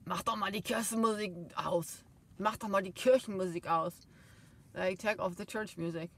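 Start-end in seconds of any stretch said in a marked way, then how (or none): 0.1-4.1 louder, scolding German rebuke; mock admonishing in German; scolding stepfather. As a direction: bark it like a grumpy stepfather telling her off. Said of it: "admonish me".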